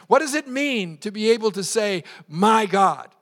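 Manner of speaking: projected rhetorical question; emphatic preaching. Real, not acted. Pastor asking what the words mean, emphatic preaching. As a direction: pose it to the whole room.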